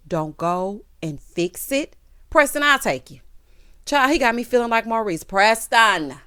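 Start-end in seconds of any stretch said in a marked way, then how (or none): 2.3-3.2 higher and louder, eager; excited offer. Real, not acted. Viewer calling out to Preston, eager and loud. 5.2-6.1 laughing shout. Real, not acted. Viewer shouting to Preston, laughing.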